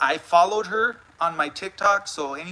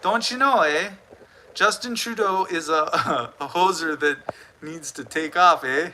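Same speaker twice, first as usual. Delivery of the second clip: put-on Canadian accent. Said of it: "Smokey M C B says".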